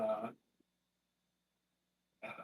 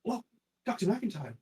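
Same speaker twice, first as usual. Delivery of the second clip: high, hammed-up old wife; old woman voice; 9 semitones higher, 8 dB louder than usual. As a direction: squeak it out as an aged wife. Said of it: "She's like".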